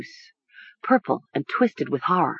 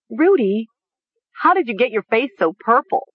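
hysterical cry; 5 semitones higher than usual. A narrator's reading. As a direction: cry it out frantically. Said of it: "she cried".

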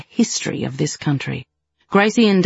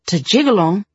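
higher, startled question; can't believe it; surprised exclamation; 5 semitones higher than usual. Acted. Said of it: "Gracie exclaimed".

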